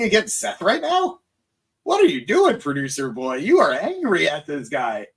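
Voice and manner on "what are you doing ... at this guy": playful mock scolding. Real, not acted. Host teasing his producer off to the side, mock scolding.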